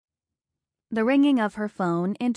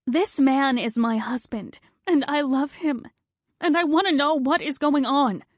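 louder and much higher, demanding; indignant; 6 semitones higher, 4 dB louder than usual. Acted. Wife confronting the surgeon, louder and higher. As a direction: stand up to the cold doctor.

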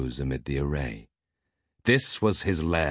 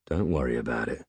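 feigned nonchalance; 4 semitones lower than usual. Acted. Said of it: "pretending not to be freaked out".

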